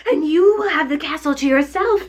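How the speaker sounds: high, crying witch lament, slowing at the end; a melting witch's tearful farewell; wailing witch. Acted. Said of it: "wailing, despairing voice".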